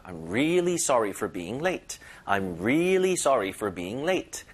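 slow, "really" pressed and lengthened; stretched really. Shown as a demonstration. Teacher modelling an apology for being late. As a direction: lean and linger on "really". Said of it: "힘을 주면서 살짝 끌어주는 거예요".

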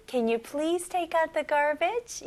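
slow, sweet request to a spouse. Shown as a demonstration. Teacher voicing a request to a husband, slow and sweet. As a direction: ask a spouse nicely, slowly. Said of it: "남편이나 아내분한테 Honey".

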